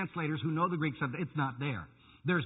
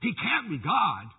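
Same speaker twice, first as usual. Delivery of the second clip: mock insistence; slower than usual. Preacher imitating the cults' repeated denial, mock insistence. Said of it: "they keep emphasizing over".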